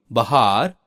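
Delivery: बाहर said 'bahaar'; short first vowel, long second in बाहर; mispronounced word. Shown as a demonstration. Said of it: "शब्दों की वर्तनी अशुद्ध है". (बाहर का गलत उच्चारण 'बहार')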